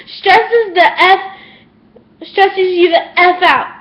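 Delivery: slow, tearful and halting; crying. Real, not acted. Venting about how teachers stress kids out, crying slowly. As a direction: let real tears slow the words down. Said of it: "I am about to cry".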